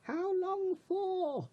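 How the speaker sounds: squeezed out while holding breath. Acted. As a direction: speak with lungs held full. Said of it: "Try holding your breath".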